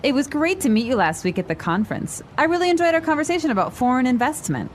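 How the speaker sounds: quick, natural conversational pace; natural speed. Shown as a demonstration. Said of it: "this time at natural speed".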